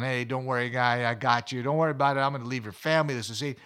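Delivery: low, even calming voice. Retold or imitated. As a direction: talk a wild swan down calmly. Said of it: "talking to the drake calmly".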